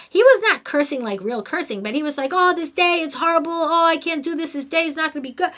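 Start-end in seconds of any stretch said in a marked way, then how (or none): 2.3-5.5 high mock-dramatic complaining. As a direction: imitate a kid groaning about his day. Son cursing the day.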